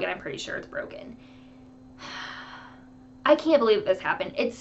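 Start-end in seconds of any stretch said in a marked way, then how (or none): 2.0-2.5 soft breathy sigh. Real, not acted. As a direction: let out a quiet, weary sigh. Sighs over her broken toe.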